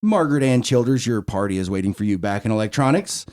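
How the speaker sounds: measured, dropping announcement voice; store intercom page. Retold or imitated. Grandchild calling great-aunt over the Walmart horn, intercom page. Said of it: "I get on the horn".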